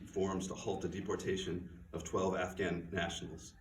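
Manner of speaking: steady, earnest reading of Laura's speech; reading from own novel. Acted. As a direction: read it like a tired aid worker laying out the facts. Reads passage from her novel.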